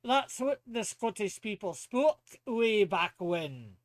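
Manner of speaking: put-on Scots brogue; Scottish accent. Explaining Gaelic to friend in a Scottish accent. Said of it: "do Scottish voice".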